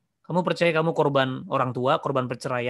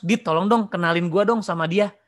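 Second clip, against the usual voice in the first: eager pleading; 4 semitones higher, 4 dB louder than usual. Acted. Acts out asking for an introduction.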